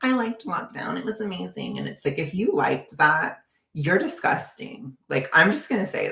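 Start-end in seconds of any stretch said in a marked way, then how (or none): 0.0-1.8 much higher, dreamy mock gush; mocking quote. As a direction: parody a silly swooning fan. Mocking astrologers who liked lockdown.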